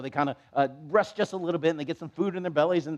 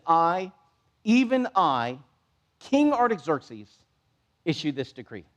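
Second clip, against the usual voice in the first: king's decree. Retold or imitated. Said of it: "He says".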